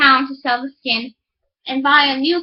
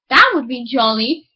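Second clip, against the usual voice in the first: louder, delighted exclamation; delighted miller; 3 dB louder than usual. Acted. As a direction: exclaim with glee. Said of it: "cried the miller".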